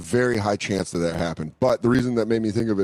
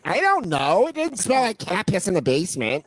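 imitating mom; 8 semitones higher than usual. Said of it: "she's like".

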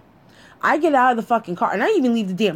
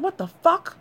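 much higher-pitched, startled question; retold disbelief; 10 semitones higher than usual. Woman spotting boyfriend's car in the driveway, incredulous. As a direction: react in mock shock, pitch jumping up.

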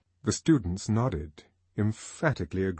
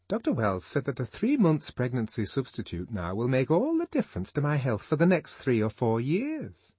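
light gossipy woman's voice; a lightly voiced chatty friend; Fanny's voice; 4 semitones higher than usual. Fanny telling Lenina about her doctor, lightly voiced.

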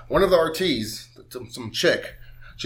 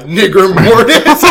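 laughing, reading text; 5 semitones higher, 9 dB louder, slower than usual. Retold or imitated. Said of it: "she texts me".

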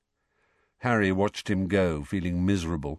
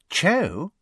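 eager surprise; 8 semitones higher than usual. A narrator's reading. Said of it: "said Rita at once".

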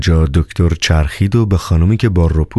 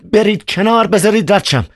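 mild shout. Acted. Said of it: "فریاد زد".

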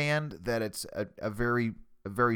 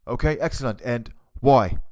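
Gordon Ramsay; 4 dB louder than usual. Pretend. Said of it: "impersonating Gordon Ramsay".

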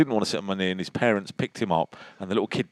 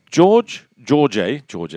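loud stumbling restart; 4 semitones higher, 7 dB louder, much slower than usual. Real, not acted. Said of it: "I can't pronounce it".

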